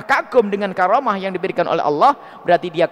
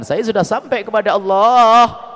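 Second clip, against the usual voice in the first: slower, louder proud declaration; louder, slower, self-satisfied boast; boastful claim; 3 semitones higher, 5 dB louder, slower than usual. Retold or imitated. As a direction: proclaim it like a man sure he has arrived. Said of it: "Di saat orang mengatakan".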